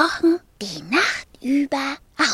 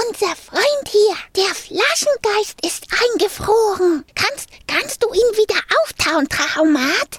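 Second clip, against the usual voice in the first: raised, insistent little-dragon voice; urgent plea; 6 semitones higher, 4 dB louder than usual. A narrator's reading. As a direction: explain urgently and beg for help. Dragon pleads with machine for help.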